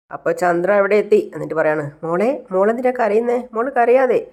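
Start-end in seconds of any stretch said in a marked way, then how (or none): 2.0-4.2 higher-pitched fussing comfort; consoling mother-in-law. Acted. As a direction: coo concern at a crying daughter-in-law. Mother-in-law consoles crying Shruti.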